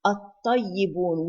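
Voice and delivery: الطيبون with no L, doubled heavy T; silent lam. Shown as a demonstration. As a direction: merge the lam of الطيبون straight into ط. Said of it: "We did not pronounce the lam".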